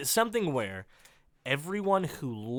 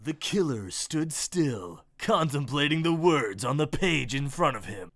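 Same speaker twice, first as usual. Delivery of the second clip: booming voiceover. Acted. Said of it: "A booming baritone voice".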